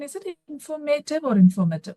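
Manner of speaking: "informative" first as in-for-MAY-tive, then in-FOR-muh-tiv; contrasting two pronunciations. Retold or imitated. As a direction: ask it, switching "informative" from MAY stress to FOR stress. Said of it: "I asked my son".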